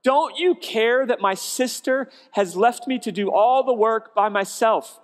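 loud, high, exasperated plea to the Lord; frustrated complaint. Retold or imitated. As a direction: demand help, she's had enough. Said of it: "She said".

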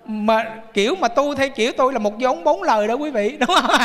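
ordinary talk, nothing marked

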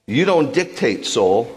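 David ordering his soul to praise; David commanding his soul. Retold or imitated. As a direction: order your soul around like a stern master. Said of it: "He's like".

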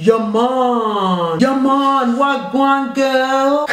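drawn-out Jamaican greeting; Jamaican accent. Acted. Mum takes her turn in an accent challenge, mock Jamaican. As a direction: put on a slow Jamaican accent. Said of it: "Jamaican, you go first".

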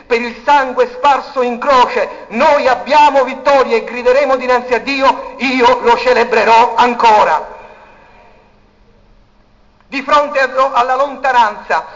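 loud, ringing sermon climb, words hammered out; preaching at full force. Acted. Preacher rallying the church toward victory, full-force preaching. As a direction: rouse the congregation to victory.

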